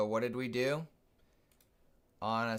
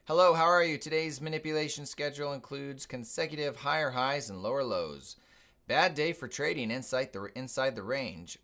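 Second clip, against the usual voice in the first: newscaster voice; 3 semitones higher, 3 dB louder than usual. Retold or imitated. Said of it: "it sounded like a newscaster".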